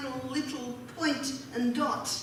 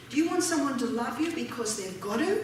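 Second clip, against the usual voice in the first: ordinary talk, nothing marked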